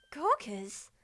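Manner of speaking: puzzled, rising "Gawkers?"; surprised question. Real, not acted. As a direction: repeat the word in disbelief. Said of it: "player questions the word".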